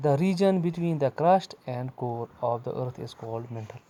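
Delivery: slow, drawn-out reading of the English textbook line. Acted. Teacher reading the textbook to young pupils, slow and deliberate. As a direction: read it out word by word for the class.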